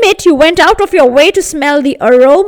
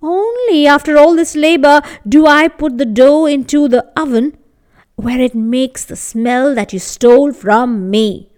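indignant baker; 4 dB louder than usual. Acted. Baker's angry demand.

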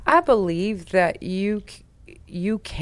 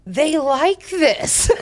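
laughing through it; 9 semitones higher, 4 dB louder, much slower than usual. Retold or imitated. Snitch's warning about her crew.

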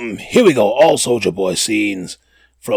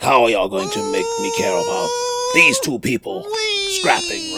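mock exasperated squeal; high-pitched whine of disbelief; squeaky incredulous. Real, not acted. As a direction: voice shoots way up in disbelief. Mock exasperation about fight scenes.

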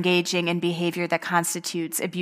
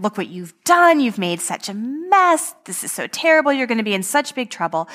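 mock-scolding shout, climbing higher, then a fast finish; acting out the parents' fake outrage; retold parents screaming; 4 semitones higher than usual. Parents yelling at young son over a fake mess, mock scolding shout. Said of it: "started screaming for Cody to come upstairs".

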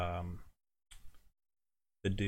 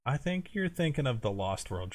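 mocking echo; 6 semitones higher than usual. Friend mocks a correction back.

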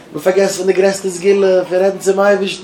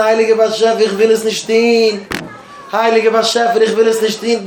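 drawn-out plea, only mildly raised; crying out to God; slower than usual. Acted. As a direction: call upward in earnest, without a full shout. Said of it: "Gib ein Schrei zum Eiwischen". (א געצויגן, מילד געשריי צום אייבערשטן)

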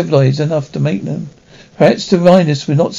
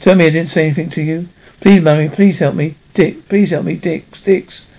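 sobbing. Acted.

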